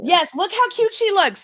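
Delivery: high, loud and slow; gushing over the dog. Real, not acted. Showing her dog to a friend, gushing high and slow. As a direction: coo over how cute she is.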